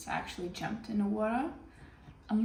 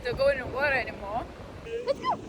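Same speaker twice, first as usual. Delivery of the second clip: excited; 8 semitones higher than usual. Real, not acted. Windy beach, calling out.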